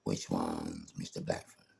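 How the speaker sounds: dropped to a low, slow, cold voice; mock hard man; low menacing demand. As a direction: ask it low and slow like a threat. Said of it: "I've gone".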